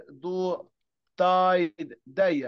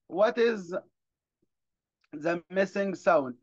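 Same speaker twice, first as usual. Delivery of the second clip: slow teacher question; much slower than usual. Shown as a demonstration. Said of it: "slow question to pupils".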